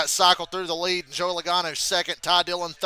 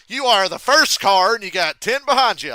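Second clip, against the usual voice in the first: imitating spotter; 4 semitones higher, 10 dB louder than usual. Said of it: "I heard Cindric's spotter go".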